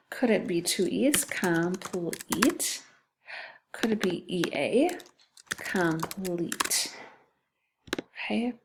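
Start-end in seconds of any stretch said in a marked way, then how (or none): 1.2-2.8 "Complete" drawn out as com, puh-l, eat; sounded out. Shown as a demonstration. Teacher testing a spelling with two E's, "Complete" slowly sounded out. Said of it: "That's two syllables too". 5.5-7.0 "Complete" slowly as com, l-eat; sounded out. Shown as a demonstration. Teacher testing the E A spelling, "Complete" slowly in syllables. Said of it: "That's two syllables too".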